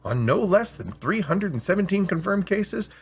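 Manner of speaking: an AI salesman boasting about its bit's history; hard sell. Acted. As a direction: build the hype like a pushy seller. AI pitching a special bit.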